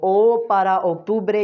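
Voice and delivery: slow "ओ para अक्टूबरे", ending "-bre"; Spanish example phrase. Shown as a demonstration. Teacher links vowel to month, slow ओ para अक्टूबरे. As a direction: stretch ओ, then अक्टूबरे as "ok-TOO-bray". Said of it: "ओ से आपने अक्टूबरे बोलना है".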